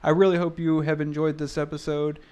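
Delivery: brisk host outro, quick at the start; podcast sign-off. Acted. Host signing off the podcast to listeners in an announcer read. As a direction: wrap up the show like a radio host.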